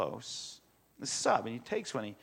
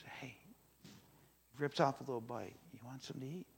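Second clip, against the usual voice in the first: secretive hushed offer; 9 dB quieter, faster than usual. Pretend. Philip kinda hidden, offering bread.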